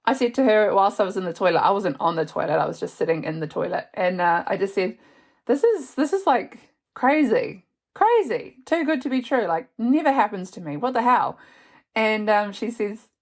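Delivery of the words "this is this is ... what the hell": higher, rising giddy disbelief, crazy stretched out; retold giddy excitement with a friend; excited disbelief. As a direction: gush it like it's too good to be true. Retelling her shock in the toilet.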